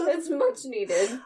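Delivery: cracking voice. Real, not acted. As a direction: voice breaks mid-phrase. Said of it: "My voice cracked when I did that".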